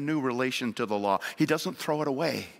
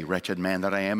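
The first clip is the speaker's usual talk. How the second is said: "Wretched man that I am" said low and hollow, self-pitying; the wrong way, a false humble sigh; hollow piety; 8 semitones lower than usual. Shown as a demonstration. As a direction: recite it as empty piety. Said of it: "in the wrong way".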